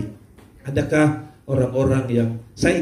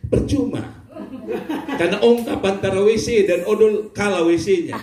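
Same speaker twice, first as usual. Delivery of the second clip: laughing; 5 semitones higher than usual. Real, not acted. Laughing at the joke.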